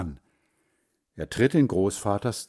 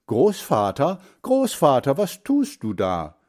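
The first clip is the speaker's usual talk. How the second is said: raised, higher call on the name; mildly raised storybook shout; calling out loudly; 5 semitones higher, 5 dB louder than usual. A narrator's reading. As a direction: call out to grandfather, then ease off. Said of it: "Dann ruft er laut".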